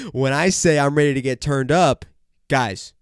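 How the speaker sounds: loud hype-man call; hype shout. Acted. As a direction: pump up the crowd.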